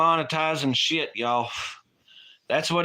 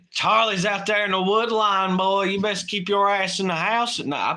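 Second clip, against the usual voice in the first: stern dad; 6 semitones higher than usual. Retold or imitated. Dad warning a kid.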